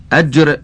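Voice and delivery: "أجر" as aj-r, a on the hamza, vowelless j; careful vowelling. Shown as a demonstration. Reader glossing a hadith word, careful "أجر" with a then silent-vowel j. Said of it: "بفتح الهمزة وسكون الجيم".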